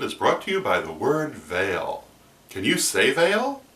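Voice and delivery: hammed-up Sesame Street style ask; mock kids' show host. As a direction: coax the kids like a TV puppet host. Kids' show host prompting viewers.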